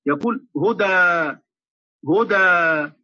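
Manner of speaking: هدى drawn out slowly, jaws apart on the a; slow, open-mouthed هدى; open fatḥ demo. Shown as a demonstration. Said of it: "بالتباعد بين الفكين".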